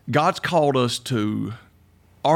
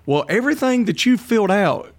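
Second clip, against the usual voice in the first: higher-pitched, lightly voiced lady; test lady; 6 semitones higher than usual. Lady telling him he'd be a pastor, lightly voiced role. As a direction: retell her verdict in a higher voice. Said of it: "talking to this lady ... she said".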